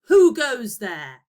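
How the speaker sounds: big booming troll shout, slow. Acted. Teacher reading the troll's line to pupils, loud slow troll shout. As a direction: boom it out like a troll at the bridge. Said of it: "the troll shouted".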